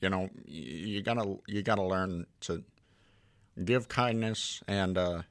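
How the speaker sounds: Doctor Phil. Acted. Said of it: "Do your Doctor Phil".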